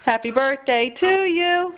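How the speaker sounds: slow, clearly spaced words; slow modeling for child. Shown as a demonstration. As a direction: spell it out slowly for a toddler. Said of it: "Can you say".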